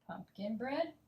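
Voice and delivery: "Pumpkin bread" rising at the end; rising intonation. Shown as a demonstration. Teacher repeating the second option, voice going up. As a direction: let "bread" lift upward as a middle option. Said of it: "my voice will go up".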